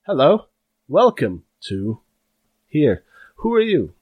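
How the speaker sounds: put-on a prim elderly receptionist peering over his glasses; fussy old orc clerk. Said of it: "and he says".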